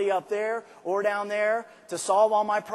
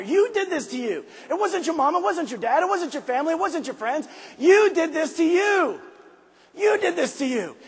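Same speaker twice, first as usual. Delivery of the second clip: loud, high, raw self-reproach; shouting at himself; 8 semitones higher, 4 dB louder than usual. Retold or imitated. Man bawling at himself in the mirror, shouting. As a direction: yell the truth at your own reflection. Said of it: "and I'm bawling".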